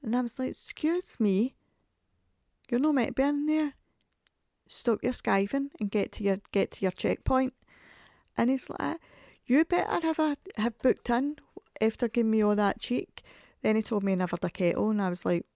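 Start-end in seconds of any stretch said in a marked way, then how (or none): 0.5-7.5 high, loud playful scolding; bossing the worker around for a laugh; mock telling-off. Teasing the dump worker about skiving, mock telling-off. 9.5-13.2 much higher, louder teasing retort; voicing the worker firing cheek back; mock cheeky comeback. Dump worker teasing her back, high mock retort.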